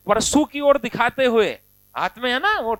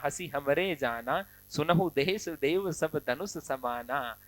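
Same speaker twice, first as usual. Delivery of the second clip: teasing Lakshman; 6 semitones lower, 9 dB quieter, slower than usual. Acted. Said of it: "Lakhan हंस करके कहते हैं".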